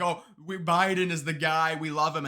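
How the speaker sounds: lightly gush, making fun of them; mock adoration. Mock quote of fawning party supporters.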